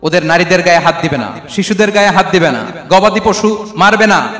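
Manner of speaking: forceful warning, loud opening word; battlefield proclamation. Retold or imitated. Preacher voicing the Prophet's orders on the battlefield, proclaiming. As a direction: proclaim each ban firmly to the troops. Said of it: "ঘোষণা দিতেন".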